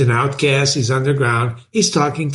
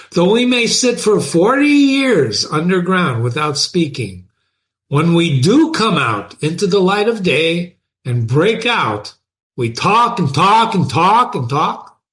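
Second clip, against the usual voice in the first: emphatic literary read-aloud; dramatic reading; 2 semitones higher than usual. A narrator's reading. Teacher reads an underground man's confession to class, dramatic reading. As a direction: read it out with drawn emphasis on key words.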